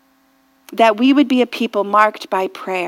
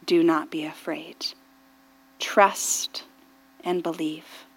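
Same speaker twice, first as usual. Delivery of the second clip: gentle reassurance; 3 semitones lower than usual. Acted. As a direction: speak peace over them, lower and hushed. Voicing God's reassuring words.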